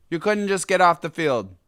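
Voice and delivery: indignant, settling into resignation; exasperated. Real, not acted. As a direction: repeat it as a fed-up statement, letting it drop. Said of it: "It's so ridiculous".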